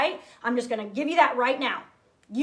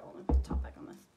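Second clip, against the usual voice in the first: whisper; 6 dB quieter, faster than usual. Real, not acted. Aside while closing a bottle.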